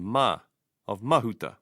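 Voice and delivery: "Mahuta" stressed on MA; stress on first vowel. Shown as a demonstration. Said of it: "stress should be on the first vowel".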